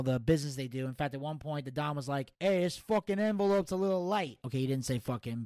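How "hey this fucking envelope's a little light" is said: put-on Italian mobster accent. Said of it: "the only way I can do the accent".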